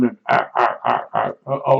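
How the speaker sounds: imitating a nervous woman's halting grunts; nervous stammer. Mimicking the nervous neighbor who only grunts hello. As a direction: stammer out broken little ahs, like someone too shy to greet. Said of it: "like she was really nervous".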